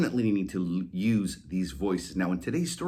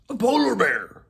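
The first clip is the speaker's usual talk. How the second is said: higher, louder collie voice; dog suggesting; 12 semitones higher, 6 dB louder than usual. Acted. Molly suggesting a polar bear, higher voice. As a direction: try one more idea.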